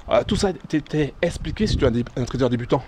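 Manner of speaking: short of breath, pausing to breathe; breathless talk on a steep climb. Real, not acted. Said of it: "Faut que je reprenne mon souffle".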